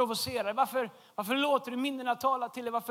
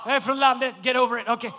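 laughing defiance; 6 dB louder than usual. Real, not acted.

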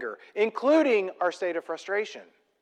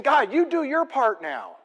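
high, exasperated demand; Moses; 6 semitones higher than usual. Acted. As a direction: push God to act, nearly yelling. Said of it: "He's almost yelling at God".

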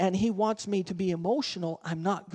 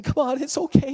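put-on louder, higher call to a scared child; coaxing parent; 6 semitones higher, 6 dB louder than usual. Parent in the cold pool urging the child, loud coaxing. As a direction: coax the kid in, calling out loud.

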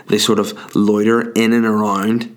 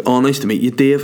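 put-on teenage boyfriend; 3 semitones higher than usual. Voicing daughter's imagined boyfriend.

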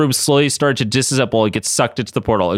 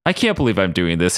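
with a sigh; 5 semitones lower than usual. Acted. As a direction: sigh it out reluctantly. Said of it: "he said with a sigh".

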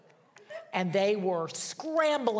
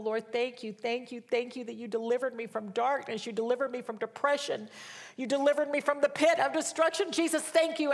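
rising, higher, fervent thanks; building from grateful to exultant, much higher; joyful praise; 5 semitones higher than usual. Retold or imitated. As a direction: let the praise climb toward Jesus. Retold joyful praise prayer.

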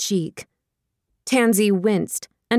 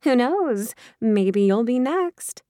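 sly tease; 3 semitones higher, slower than usual. Acted. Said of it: "Jackie's smile went sly".

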